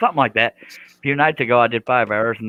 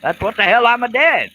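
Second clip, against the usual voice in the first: high mock protest; 13 semitones higher, 6 dB louder than usual.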